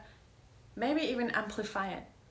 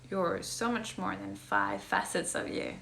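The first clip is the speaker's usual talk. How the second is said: playful disbelief; 3 dB louder, slower than usual. Retold or imitated. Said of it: "I'm like".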